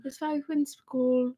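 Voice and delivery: put-on echoed German accent, in play; mock German accent. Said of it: "a German accent".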